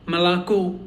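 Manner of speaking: "Malako" with a full final O; stress on last O. Shown as a demonstration. Teacher reading a dictionary accent mark, final O stressed in "Malako". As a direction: lean on "ko" at the end of "Malako". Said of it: "the last O has a little accent".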